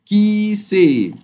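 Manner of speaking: كي سي stretched out, high and loud; slow French pronunciation. Shown as a demonstration. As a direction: model كي سي slowly for the class. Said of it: "على بعضها تنطق".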